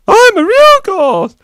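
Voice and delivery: high, loud booming ghost; real ghost. Pretend. Ghost scaring the child off, loud high boom. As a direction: boom out the reveal.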